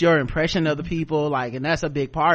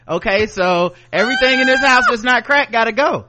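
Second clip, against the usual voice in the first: mock crackhead logic; 4 semitones higher, 4 dB louder than usual. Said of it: "Marie Kondo-inspired man voiced".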